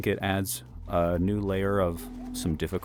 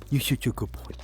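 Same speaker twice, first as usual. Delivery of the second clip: whispered dog praise; 5 semitones higher than usual. Real, not acted.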